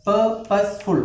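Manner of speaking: പേർപ്പസ്ഫുൾ slowly split into three syllables. Shown as a demonstration. Teacher counting syllables, പേർപ്പസ്ഫുൾ slowly in three parts. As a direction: separate each part of പേർപ്പസ്ഫുൾ. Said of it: "മൂന്ന് syllable".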